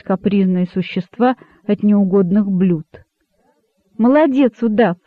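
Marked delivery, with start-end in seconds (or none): 4.0-5.0 bright, lifted cry of praise; joyful exclamation. Acted. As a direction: cheer the boa on, pitched up. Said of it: "радостно воскликнул кролик".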